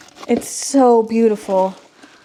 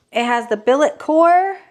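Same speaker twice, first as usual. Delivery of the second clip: ordinary talk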